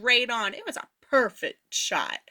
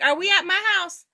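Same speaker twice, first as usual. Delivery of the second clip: higher, quicker dazed asking; confused woozy question; 7 semitones higher, faster than usual. Retold or imitated. Dazed friend asking the narrator if they're home, confused. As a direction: sound lost and befuddled.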